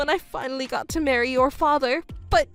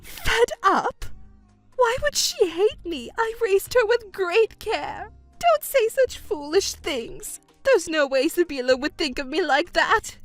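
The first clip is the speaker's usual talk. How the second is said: high, shrill-pitched denial; indignant mother; 6 semitones higher than usual. Acted. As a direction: refuse to believe it, voice up high.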